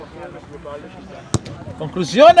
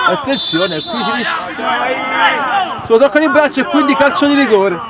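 tense alert; 5 semitones higher than usual. Real, not acted. Penalty risk, live commentary.

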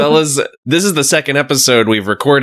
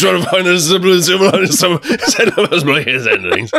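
put-on Canadian accent; 4 semitones higher than usual. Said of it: "Are you gonna do the whole episode like that".

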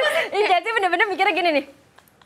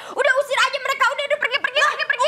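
mock shooing; 9 semitones higher, faster than usual. Shooing them away, high.

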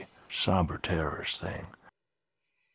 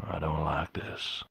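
slow uneasy whisper; 3 semitones lower, 5 dB quieter, slower than usual. Acted. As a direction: hush it nervously. Unvoiced worried aside.

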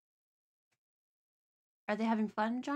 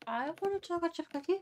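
eager; 8 semitones higher, faster than usual. Pretend. Eagerly wanting cookie.

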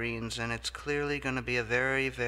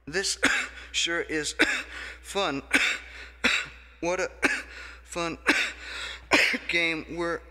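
higher and louder, cheerful words choked by loud coughs; coughing with glee; 6 semitones higher, 6 dB louder than usual. Acted. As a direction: sound thrilled while hacking on every word. Delighted while coughing hard.

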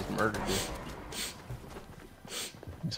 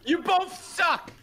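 high, slow sing-song jeer; mocking taunt; slower than usual. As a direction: taunt them like a bratty kid. Taunting defeated enemies.

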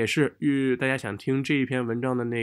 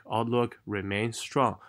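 slow, broken-up reading; choppy, drawn-out learner rhythm; too scattered rhythm; slower than usual. Shown as a demonstration. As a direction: read it word by word, too spread out. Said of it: "这样读的节奏就太分散了".

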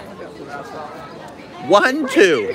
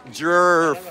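American accent. Shown as a demonstration. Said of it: "Say it in your American accent".

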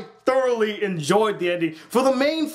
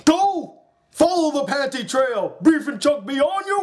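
commanding shout; 6 semitones higher than usual. Retold or imitated. Garter Belt sending Brief and Chuck off, booming order. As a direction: bellow it like a commander. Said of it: "you got Garter Belt going".

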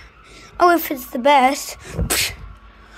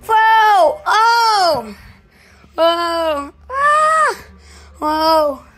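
excited yelps; 3 semitones higher, 3 dB louder, much slower than usual. Real, not acted. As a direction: yell while tumbling. Falling, game chaos.

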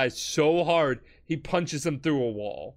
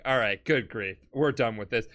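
lower, weary dismissal; unimpressed; 6 semitones lower than usual. Retold or imitated. Jotaro fed up with a knife threat, unimpressed. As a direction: imitate someone who has had enough.

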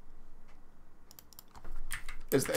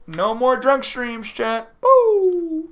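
mock complaint; 10 semitones higher, 6 dB louder, much slower than usual. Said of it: "I'm just joking".

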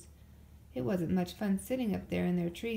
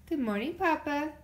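sweetly; 6 semitones higher, 3 dB louder than usual. A narrator's reading. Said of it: "as nice as you please".

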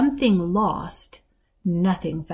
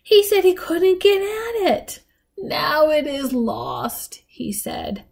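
put-on high, slow, dreamy old woman; faraway granny; 7 semitones higher, slower than usual. A narrator's reading. Granny retelling her grandfather's dying words, faraway and mysterious. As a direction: drift into the past, savouring the mystery. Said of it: "with a faraway look".

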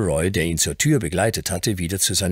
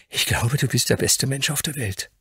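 put-on high child's heartfelt declaration; admiring outburst; 8 semitones higher than usual. A narrator's reading. Grandson gazes at the Earl with admiration, heartfelt outburst. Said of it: "brach es schließlich aus ihm heraus".

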